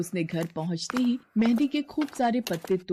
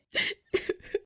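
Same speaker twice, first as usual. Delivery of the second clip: stifled sob; 5 dB quieter than usual. Acted. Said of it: "Meera रोते हुए".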